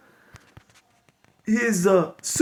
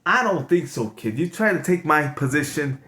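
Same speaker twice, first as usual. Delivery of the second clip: Steve Harvey voice; 2 semitones lower, much faster than usual. Acted. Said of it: "Now I'm sounding like Steve Harvey".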